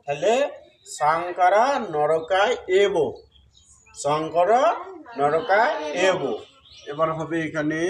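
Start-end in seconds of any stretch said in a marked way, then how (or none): 1.0-2.9 সাংকারা নরকায় এব slowly, "sangkara norokaay ebo"; corrected pronunciation. Shown as a demonstration. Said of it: "তাহলে এই উচ্চারণ কি হলো?". 4.0-6.2 শঙ্কর, pause, then নরকায় এব slowly; pronunciation model. Shown as a demonstration. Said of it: "তাহলে এই উচ্চারণ কি হলো?".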